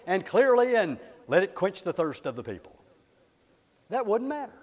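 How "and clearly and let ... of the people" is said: a touch of grand eloquence, dropping away at the end; eloquent. Shown as a demonstration. Preacher imagining Moses addressing the rock, mildly eloquent. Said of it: "become very eloquent and said".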